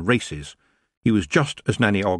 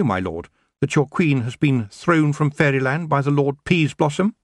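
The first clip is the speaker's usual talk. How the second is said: high, firm reply; young witch; 7 semitones higher than usual. A narrator's reading. Tiffany answering the elf king, high and firm. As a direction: answer proudly.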